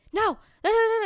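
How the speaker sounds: high, loud babbled objection; mock refusal. Friend refusing to calm down, mock protest. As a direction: cut in with hammed-up squawking protest.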